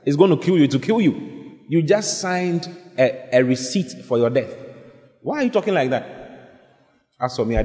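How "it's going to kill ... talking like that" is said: higher-pitched, mild scolding. Acted. Preacher correcting someone who speaks death over themselves, scolding. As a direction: chide them in a raised pitch.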